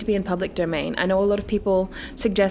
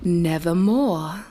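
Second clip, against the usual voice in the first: croaking raven; 2 semitones lower, much slower than usual. Acted. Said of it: "meant in croaking".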